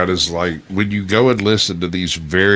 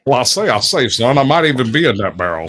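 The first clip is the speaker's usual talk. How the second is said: Foghorn Leghorn; 3 semitones higher than usual. Acted. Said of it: "That was a perfect foghorn leghorn".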